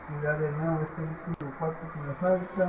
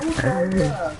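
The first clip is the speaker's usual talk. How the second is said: frustrated outburst; 2 semitones higher, 7 dB louder, slower than usual. Real, not acted.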